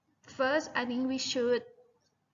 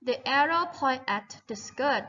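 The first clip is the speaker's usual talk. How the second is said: "The arrow point at the skirt" said slowly, word by word; slow model sentence; much slower than usual. Shown as a demonstration. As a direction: spell it out slowly for the class. (พูดช้าๆ ทีละคำให้นักเรียนฟัง)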